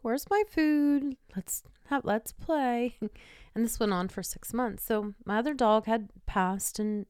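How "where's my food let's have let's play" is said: eager dog voice. Retold or imitated. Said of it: "she'd be like".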